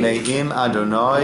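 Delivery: measured, phrase-by-phrase psalm leading; slow prayer recitation. Real, not acted. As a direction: recite slowly for others to repeat. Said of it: "I'll say it slowly".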